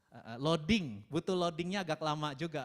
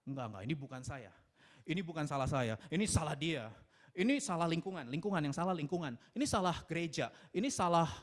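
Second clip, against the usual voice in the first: defensive blaming. Acted. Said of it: "ujung-ujungnya kita mempersalahkan orang lain".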